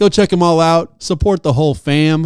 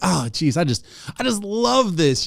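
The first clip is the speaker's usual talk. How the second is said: sarcastic mock enthusiasm, quieter; 7 dB quieter than usual. Recalling watching their tank, quoting their past self with sarcastic mock enthusiasm. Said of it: "I was loving the sarcasm".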